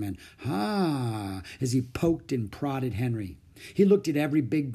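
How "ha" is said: musing ha. Acted. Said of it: "he said nothing but".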